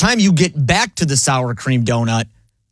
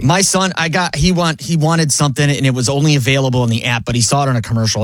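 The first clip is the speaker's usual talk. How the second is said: ordinary talk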